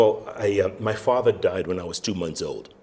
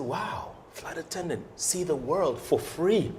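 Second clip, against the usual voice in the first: voicing his younger self, higher and eager; excited teen self; 9 semitones higher, slower than usual. The speaker's younger self reading the Pan Am ad, eager and higher. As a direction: gush like a nineteen-year-old seeing the ad.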